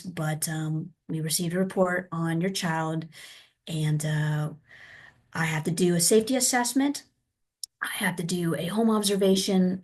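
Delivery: soft, measured, apologetic explanation; right tone, gentle. Shown as a demonstration. Social worker explaining a home assessment to a parent, gentle. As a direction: take it gently and politely, voice kept down. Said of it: "it would be the tone".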